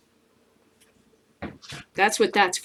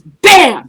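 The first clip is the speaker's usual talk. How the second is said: loud mock bang; 4 semitones higher, 12 dB louder than usual. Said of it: "acted hit".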